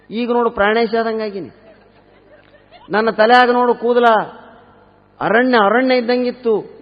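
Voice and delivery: high-pitched comic wail of regret; mock lament. Married man shows friend his wedding video, mock lamenting. Weeping husband laments lost looks.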